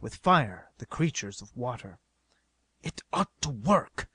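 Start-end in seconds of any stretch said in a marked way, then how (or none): 2.8-4.1 half-whispered, hushed hope; self-reassuring. A narrator's reading. Stanley tries to reassure himself and others, hushed. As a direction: murmur it to convince yourself. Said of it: "as though trying to reassure himself".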